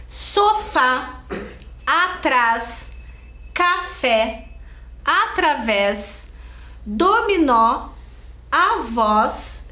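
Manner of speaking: slow list, each word leaning on its end, as "Sofá", "café", "dominó"; spaced words, final syllable stretched and stressed as in "dominó"; stress on last syllable. Shown as a demonstration. Teacher showing oxytones to pupils, "Sofá" to "parabéns" with stressed endings. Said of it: "a última sílaba da palavra é a mais forte".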